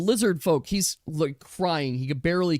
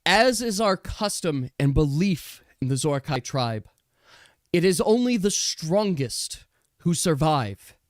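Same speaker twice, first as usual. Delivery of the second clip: slow, solemn ruler's decree; a lightly voiced stern queen; Zydra pronouncing judgment. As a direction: hand down the sentence with cold ceremony. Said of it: "and Zydra says".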